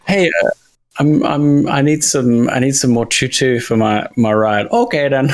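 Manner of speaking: a cheerful Midwesterner asking for supplies; Minnesota accent. Retold or imitated. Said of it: "Midwestern accent".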